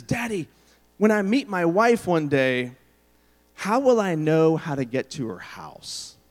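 imitated child's whisper-yell. Son asks dad about his future wife, mock whisper-yelling. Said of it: "so he whisper yells".

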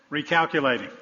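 lightly voiced navigation prompt; a hint of a GPS voice. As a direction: announce it like a GPS, mildly put on. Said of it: "person with this British accent comes on".

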